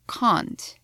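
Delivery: can't with a long broad ah, British style. Shown as a demonstration. A teacher demonstrating the British can't. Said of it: "in British English, I would say".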